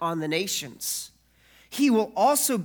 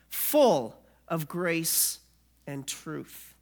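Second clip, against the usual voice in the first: solemn scripture reading; slower than usual. Acted. Reads scripture.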